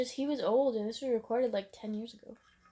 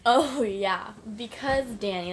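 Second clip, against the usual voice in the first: put-on British accent; 5 dB louder, slower than usual. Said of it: "You're doing the British accent".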